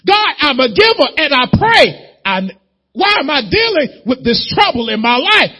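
high, loud desperate plea; shouted prayer. Acted. Giver crying out to God over trouble, shouting. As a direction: shout your complaint up to God.

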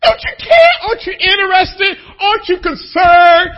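high crying shout of panic; frightened disciples crying out to Jesus in the storm; anguished plea. Retold or imitated. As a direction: plead at the top of your voice.

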